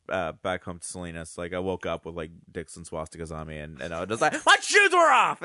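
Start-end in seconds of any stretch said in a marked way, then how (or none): 4.4-5.4 very high, loud mock-indignant shout; outraged scream. Waking up covered in drawings, outraged retold scream.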